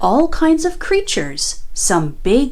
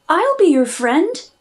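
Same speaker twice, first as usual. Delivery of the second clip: peeping vole; 6 semitones higher than usual. Acted. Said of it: "He peeped".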